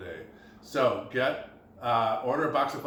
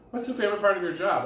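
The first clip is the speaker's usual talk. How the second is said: higher, louder and faster repeat of the question; repeated in surprise; 8 semitones higher, 5 dB louder, faster than usual. Retold or imitated. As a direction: ask again, pushing it up with disbelief. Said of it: "She said, "What?".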